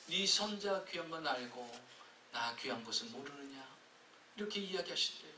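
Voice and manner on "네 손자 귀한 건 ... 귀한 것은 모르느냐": a hint of God quietly rebuking. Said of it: "주님이 이렇게 말씀하실 때". (느리고 조용한 주님의 꾸짖음)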